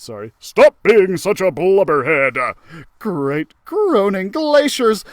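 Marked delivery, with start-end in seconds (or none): 0.4-2.5 a louder, gruff-ish Max scolding; Max Musclepaw. Acted. Max scolding Geronimo, louder corrected voice. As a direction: scold him like the bossy leader. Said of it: "I did the wrong voice".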